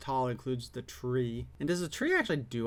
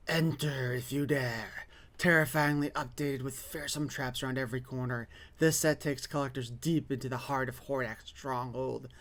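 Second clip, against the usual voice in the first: spooky ad read. Acted. Reads product blurb, spooky voice.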